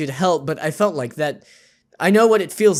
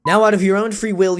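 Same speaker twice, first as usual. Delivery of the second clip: louder, firmer narrator read; confident retake; 4 semitones higher, 5 dB louder than usual. Shown as a demonstration. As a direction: restart it with conviction. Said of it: "I'm gonna start over".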